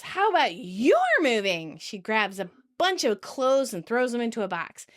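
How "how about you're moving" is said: mild mock shout; half-hearted imitation of shouting back. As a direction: retort with a light retold yell. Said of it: "Monica shouts".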